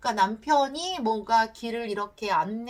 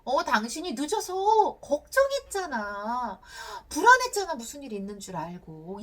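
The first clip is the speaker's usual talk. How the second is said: worried. Acted. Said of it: "걱정돼서 화가 나는 거예요". (걱정했다고 호소하는 말투)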